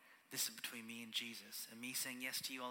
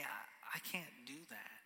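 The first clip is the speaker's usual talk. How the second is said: quiet whispered surrender; whispered admission; 6 dB quieter, slower than usual. Retold or imitated. Person at the squat bar whispering surrender. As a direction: breathe it out as a whisper.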